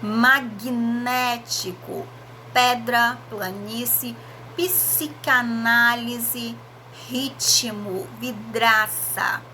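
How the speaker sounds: each word stretched out slowly, consonants distinct; slow clear sounding out. Shown as a demonstration. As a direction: read the list slowly like a dictation. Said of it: "olha só a pronúncia dos dois". (leitura lenta e bem articulada)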